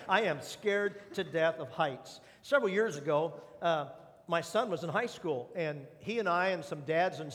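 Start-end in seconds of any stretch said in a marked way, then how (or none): 0.1-2.2 slowed right down, every word weighed; slow emphatic confession. Shown as a demonstration. Pastor owning up to his fear, slow and deliberate. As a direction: admit it slowly, each word landing. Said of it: "let's just get it out there".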